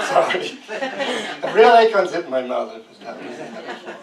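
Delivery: laughing through the words. Real, not acted. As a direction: talk while still laughing. Laughing at audience question.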